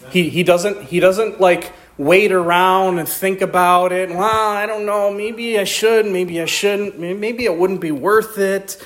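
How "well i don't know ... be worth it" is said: mock dithering. Acts out someone dithering over obeying.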